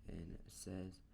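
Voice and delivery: plain reading voice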